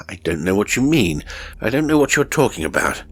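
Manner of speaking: mild angry retort. Acted. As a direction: snap back defensively, speeding up. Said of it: "I said angrily".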